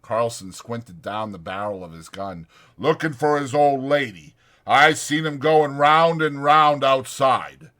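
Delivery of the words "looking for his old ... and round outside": dry mocking drawl, higher; sarcastic. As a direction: needle Curly with sarcasm. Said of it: "Whit said sarcastically".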